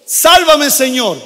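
high pleading shout for rescue; crying out. Acted. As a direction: cry out like a drowning man. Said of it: "Le gritó". (grito desesperado de auxilio)

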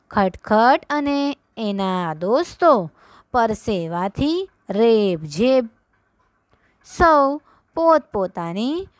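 put-on slow, measured read-aloud for children; વાર્તા વાંચન. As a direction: read slowly for children to follow along, phrase by phrase. (ધીમે ધીમે વાર્તાનું વાંચન)

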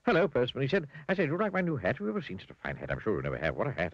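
breathless, giddy babbler, high in places; chatterbox character. Acted. Mr Chatterbox to Mr Bowler about the new hat, giddy gushing. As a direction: gush on and on, delighted with the hat.

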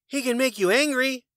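high, teasing bird voice. A narrator's reading. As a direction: tease it up high. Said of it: "The bird said".

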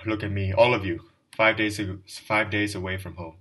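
put-on a drunk clerk's loud public confession; loud outburst. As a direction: look at me, flung out loudly at the whole room.

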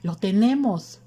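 high, loud cry of triumph; excited cry. A narrator's reading. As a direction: call it out, thrilled at the breakthrough. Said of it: "gritó Mercedes".

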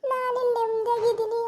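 words wet with tears; tearful and breaking; crying. Acted. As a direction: speak through sobs. Mother weeping over jailed daughter.

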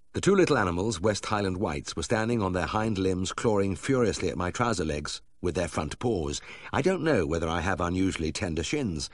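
usual speaking voice

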